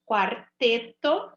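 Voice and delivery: Quarteto drawn out slowly with the U sounded as kw; slow teaching read. Shown as a demonstration. Teacher reading a word list to pupils, slow and clear. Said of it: "Tá vendo como eu ouço o som do U?".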